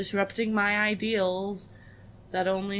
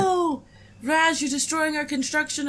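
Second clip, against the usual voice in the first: mock shock; 6 semitones higher than usual. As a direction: gasp in pretend horror. Mock shock at Raz's family.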